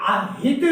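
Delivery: آہد ending in an echoing د; qalqala. Shown as a demonstration. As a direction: bounce the د of آہد with an echo. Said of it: "کلکلا کرنا ہے".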